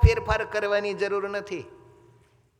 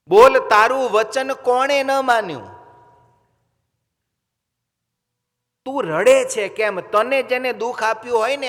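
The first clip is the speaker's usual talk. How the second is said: higher, louder pleading demand from the king; a son who can't bear his mother's tears; anguished son; 4 semitones higher, 5 dB louder than usual. Acted. King Gopichand begs his weeping mother, urgent and loud.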